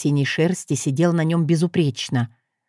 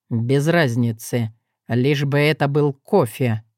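irritated; 4 semitones lower than usual. Acted. Irritated stranger.

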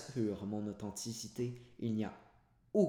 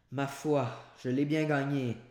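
proud servant; 4 semitones higher, 6 dB louder than usual. A narrator's reading. Servant accepts the cassis proudly.

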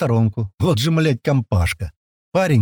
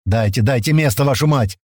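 mildly shouted, impatient order. Acted. Senior man clears space by Паштет, mildly shouting. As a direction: order them to make room. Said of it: "раздался над ухом крик старшего".

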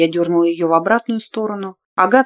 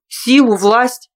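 gruff stubborn voice; 3 semitones higher, 5 dB louder, much slower than usual. Acted. Stubborn man's demand.

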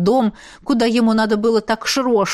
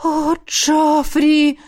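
slow, drawn-out higher moan; 6 semitones higher, much slower than usual. A narrator's reading. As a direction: stretch the name out in a moan. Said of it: "раздавались стоны".

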